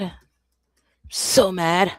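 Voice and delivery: milk each word of the fake sulk; drawn-out mock anger. Repeats her complaint two ways.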